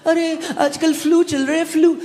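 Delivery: high-pitched imitation of a complacent believer; put-on chatty high voice; mock casual excuse. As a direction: play someone shrugging off sickness. Voices people excusing the flu.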